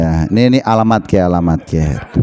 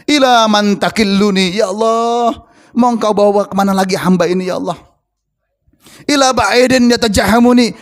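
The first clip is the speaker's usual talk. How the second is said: sustained pleading supplication; acted plaintive prayer; pitiful prayer. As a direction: implore God as a helpless servant. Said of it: "Rasulullah melas".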